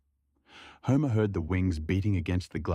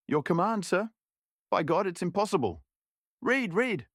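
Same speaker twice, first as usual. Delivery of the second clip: voiced dialogue; 5 semitones higher than usual. Voiced dialogue, high pitch.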